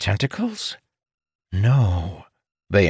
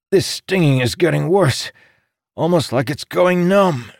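pained character voice; 9 semitones higher than usual. A narrator's reading. Wounded Amandal in pain.

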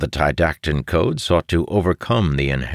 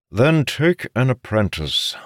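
higher, tense suggestion; through clenched teeth; 9 semitones higher than usual. A narrator's reading. Father pushes his son toward apprenticeship, through clenched teeth. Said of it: "said through clenched teeth".

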